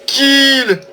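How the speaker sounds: thrilled gamer cheering a kill; ecstatic cheering. Real, not acted. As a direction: shriek with joy at the kill.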